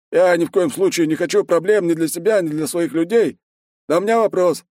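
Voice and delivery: high, careful voice of a wary headman; cautious village elder. A narrator's reading. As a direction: speak up carefully, not wanting trouble. Voit speaks to the mercenaries.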